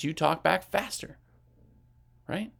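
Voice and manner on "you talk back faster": quick pace on "you talk back faster"; "you talk back faster" sped up. Shown as a demonstration. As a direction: say "faster" briskly to show a fast talker. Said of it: "talking to you fast".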